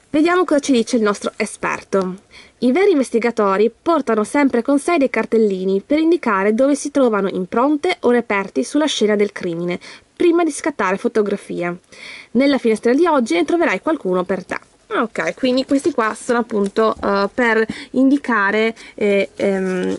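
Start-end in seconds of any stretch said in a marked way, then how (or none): 2.6-14.6 lightly animated storybook reading; measured storyteller's delivery; story narration. A narrator's reading. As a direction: read a children's mystery aloud.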